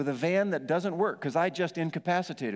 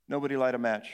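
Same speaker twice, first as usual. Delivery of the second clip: laughing deadpan quip; 4 semitones lower than usual. Retold or imitated.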